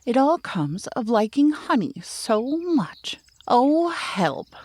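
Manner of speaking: a falling bear's sudden cry for help; startled cry. Acted. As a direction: cry out as the branch breaks. Pooh landing in gorse bush.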